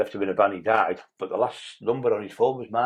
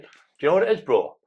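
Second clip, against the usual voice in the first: taunting; 5 semitones higher than usual. Retold or imitated. Taunting armed cop, retold.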